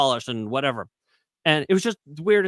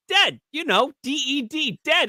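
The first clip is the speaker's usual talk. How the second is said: deadpan algorithm; 12 semitones higher than usual. Retold or imitated. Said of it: "They're like".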